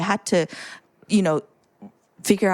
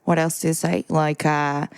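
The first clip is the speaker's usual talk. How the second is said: ordinary talk, nothing marked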